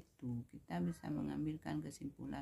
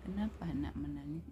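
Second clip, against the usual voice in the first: gentle question; faster than usual. Shown as a demonstration. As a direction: ask the child kindly at an easy pitch. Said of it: "beda intonasi".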